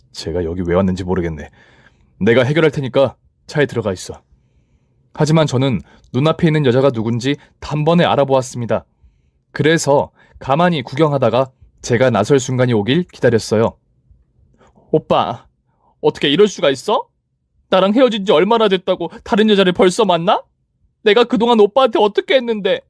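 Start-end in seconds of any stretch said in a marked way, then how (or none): 0.1-4.2 put-on awkward boyfriend reassuring her; lightly voiced boyfriend. Boyfriend handles ex. 14.9-22.8 higher, rising whiny accusation; pleading ex rising in pitch; jilted ex girlfriend. Acted.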